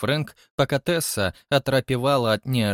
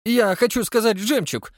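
high, louder amazement; wondering; 10 semitones higher, 4 dB louder than usual. Acted. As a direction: marvel at it. Julia stunned. (высоко, изумлённо)

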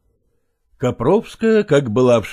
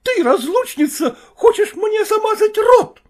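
much higher, louder outraged wail; wife howling in fury; 4 dB louder than usual. Acted. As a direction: scream it at her rival. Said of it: "завопила Копровская".

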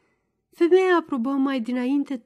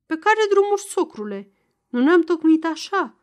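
startled protest; 6 semitones higher, 4 dB louder than usual. A narrator's reading.

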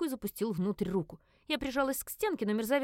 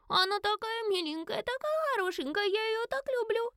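put-on very high cooing child; doting little girl; 14 semitones higher than usual. A narrator's reading. Little girl hugging her new pet, high and doting. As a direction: cuddle and adore.

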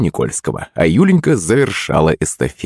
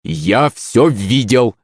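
sharp cry; 3 semitones higher, much slower than usual. Acted. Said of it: "резко вскрикнул учитель физкультуры".

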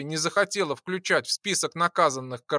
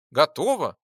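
resolute; 4 dB louder than usual. Acted. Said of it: "решительно заявила Джейн".

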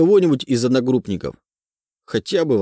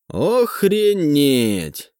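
astonished exclaim; 4 semitones higher, much slower than usual. A narrator's reading.

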